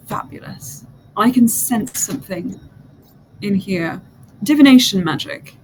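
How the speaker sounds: a hint of a grand mystic; lightly voiced diviner. Diviner welcoming the player, lightly voiced. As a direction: soothe then flatter the visitor.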